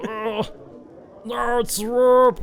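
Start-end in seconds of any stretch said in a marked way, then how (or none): 1.3-2.4 Droop said slow and high; slow correction. Real, not acted. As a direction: drag out No, it's Droop. Corrects name, drawn out.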